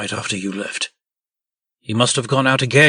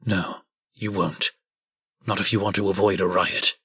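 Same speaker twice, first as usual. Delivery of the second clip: low warning; 5 semitones lower, 8 dB quieter than usual. Acted. Posey quietly warning Snow not to call Bigby, low and cold. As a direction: quietly threaten her.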